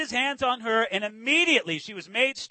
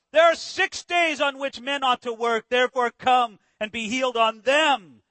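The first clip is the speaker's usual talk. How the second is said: loud, scolding synagogue ruler; indignant; 5 dB louder than usual. Acted. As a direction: rebuke the crowd with raised voice. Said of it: "answered with indignation".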